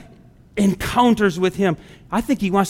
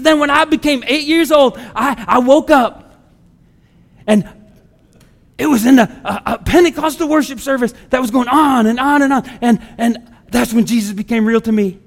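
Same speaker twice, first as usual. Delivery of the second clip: lightly imitated Southern accent, slightly raised pitch; a hint of an enthusiastic Carolina woman's accent; Dory; 3 semitones higher than usual. Preacher imitates a church member recalling childhood, light Southern accent. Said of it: "kind of got a southern accent".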